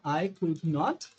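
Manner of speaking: very slow, each word apart; slow teaching read. Shown as a demonstration. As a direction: dictate not slowly. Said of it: "como é que seria a negativa".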